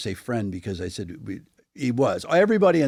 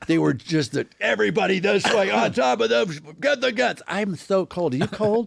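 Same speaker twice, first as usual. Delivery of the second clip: much higher, camp and fussy; effeminate soldier voice; 9 semitones higher than usual. Acted. Camp soldier shivering after the fight, high fussy voice. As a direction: play the soldier prissy but fierce. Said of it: "very effeminate soldiers".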